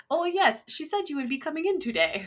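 high-pitched attempt at a Spanish accent, half laughing; a clumsy mock Spanish receptionist; bad Spanish accent. Shown as a demonstration. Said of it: "I wanna do that with an accent".

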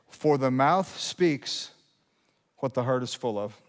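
slow scripture reading with a weighty pause after "speaks"; slow, emphatic reading. Real, not acted. Pastor giving the verse's answer, slowly with emphasis. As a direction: draw out "mouth speaks", then pause and settle. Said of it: "read this slowly with emphasis".

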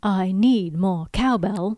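slow, deliberate Shatner-style halting read; Shatner-Walken impression. Podcast host riffs on Shatner meeting Walken, slow hammed-up impression. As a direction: lean into a hammed-up celebrity drawl. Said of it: "that's like William Shatner meets Christopher Walken".

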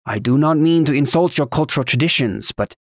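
put-on formal objection in a thick Taconi accent. A narrator's reading. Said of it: "in his thick accent".

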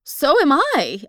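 high, loud and slow, barely managing; scared woman answers the ghost in terror; terrified. A narrator's reading. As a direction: force the words out in terror. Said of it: "I managed to utter".

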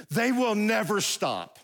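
NEVER STOP stretched out slowly and firmly; emphatic punchline. Real, not acted. Preacher warning wives about husbands, slow emphasis on "never stop".

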